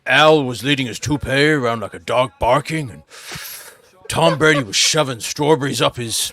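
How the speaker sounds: lightly voiced Hunter S. Thompson musing on the Raiders; half-hearted Thompson rant, slowing on key phrases; Hunter S. Thompson impression. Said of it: "you know, Hunter S. Thompson".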